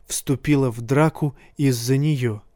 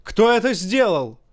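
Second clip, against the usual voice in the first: high, angry yell; furious boy-king yelling; roaring; 6 semitones higher than usual. A narrator's reading. Joffrey yells at the crowd about who threw the dung, angry. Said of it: "заорал Джофри".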